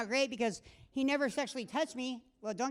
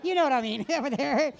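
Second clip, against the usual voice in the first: laughing; 5 semitones higher, 5 dB louder than usual. Real, not acted. Laughing aside to audience.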